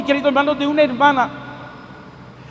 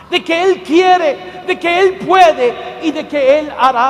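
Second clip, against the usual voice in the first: slow, shouted preaching build; a rising preacher's shout; preaching at full force; slower than usual. Real, not acted. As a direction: hammer each promise home. Preaching climax.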